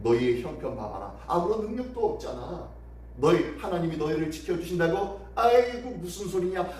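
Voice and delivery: lightly acted scoffing with bursts of emphasis; mocking, blaming. Envoy scoffs at Judah's trust in God, mild mockery. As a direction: scoff at their faith in disbelief. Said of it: "조롱하면서 비난하면서".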